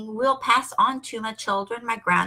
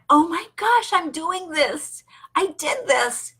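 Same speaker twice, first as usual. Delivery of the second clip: a touch of mock wonder, higher at first; excited awe; 4 semitones higher than usual. Speaker imitating her own awed excitement at new work. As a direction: gasp it out like a delighted kid. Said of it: "that excitement and that awe".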